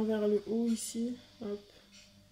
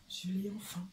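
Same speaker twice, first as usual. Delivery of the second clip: whisper; 3 semitones lower, 6 dB quieter than usual. Real, not acted. Happy whispered aside about stylus.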